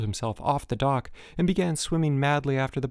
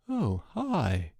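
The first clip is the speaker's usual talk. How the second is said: genially; 2 semitones higher, 3 dB quieter than usual. A narrator's reading. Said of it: "said Rudy genially".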